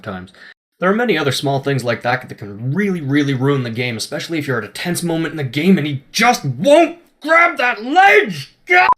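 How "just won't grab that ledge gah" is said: higher, louder frustrated yell; frustrated shout. Real, not acted. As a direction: yell at the game. Frustrated at the ledge.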